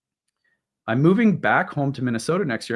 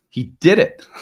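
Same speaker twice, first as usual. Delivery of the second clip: excited; 7 semitones higher, 8 dB louder than usual. Real, not acted. Dog stays in bed.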